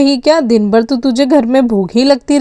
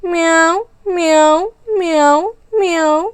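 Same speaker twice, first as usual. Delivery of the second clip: cat meowing; 3 semitones higher than usual. Acted. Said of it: "ये बिल्ली की आवाज़ कहाँ से आ रही है".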